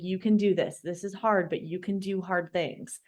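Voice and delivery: softening, understated self-encouragement; retold self-talk. Patient repeating to herself in hospital, softly encouraging. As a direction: quietly talk yourself through it. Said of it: "I just kept saying that to myself".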